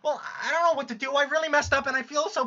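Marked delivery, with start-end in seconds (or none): 0.0-1.1 tearful. Acted. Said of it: "this fucking crying's making me lightheaded".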